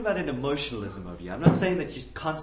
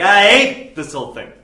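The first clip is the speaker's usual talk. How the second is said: higher, louder petulant complaint; hammed-up teenage sulk; mock sulky outburst; 7 semitones higher, 16 dB louder than usual. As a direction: stomp off and grumble it. Acted sulky teen storming off.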